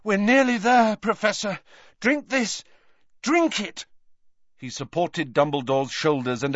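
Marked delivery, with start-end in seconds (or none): 0.0-3.8 urgent encouragement. Acted. Harry coaxing Dumbledore on.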